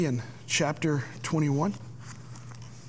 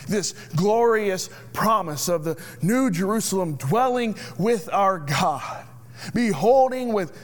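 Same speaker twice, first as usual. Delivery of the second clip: raised, emphatic preacher's proclamation; impassioned preaching. Real, not acted. Preacher proclaiming the glorious promise to the church, impassioned. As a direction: build with fervor, punching the key words.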